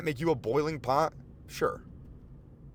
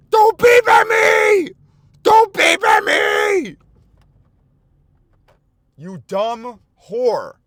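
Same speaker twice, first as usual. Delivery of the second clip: very high, very loud, slow scream; furious scream; 16 dB louder, much slower than usual. Retold or imitated. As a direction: scream it at the woman honking behind. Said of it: "turned around and fucking screamed".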